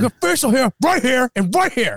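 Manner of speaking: high, put-on defensive voice; indignant imitation. Friend imitating dad defending his beard comb, indignant. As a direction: insist on it high, mock-indignant.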